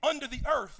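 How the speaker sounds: a sudden loud preacher's call; mock yell. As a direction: call it out like yelling to the depths. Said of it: "he yelled to the".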